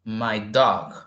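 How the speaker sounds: slow, with "under" stressed; slow model sentence. Shown as a demonstration. Teacher reading example sentence slowly, stressing under. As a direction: spell it out slowly for learners. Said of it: "What am I saying?".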